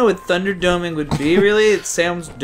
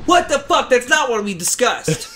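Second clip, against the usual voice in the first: shocked; 8 semitones higher, 4 dB louder than usual. Real, not acted. Outburst at the game.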